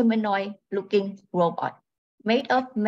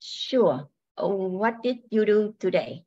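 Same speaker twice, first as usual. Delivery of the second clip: robot voice. Acted. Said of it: "She speaks in a robotic voice".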